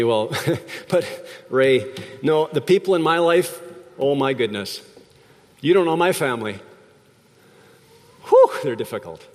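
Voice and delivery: mildly exasperated complaining listener; imagined listener. Pretend. Listener objecting to the preacher about family, mild exasperation. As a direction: play a frustrated churchgoer, lightly. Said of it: "Maybe you say to me".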